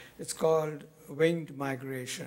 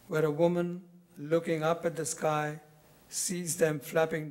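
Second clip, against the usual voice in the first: measured poem recital, pausing after each phrase; deliberate phrases that fall away at the close; poetry reading; 3 dB louder than usual. Acted. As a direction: read your poem to an audience, letting each image settle. Reads own poem aloud.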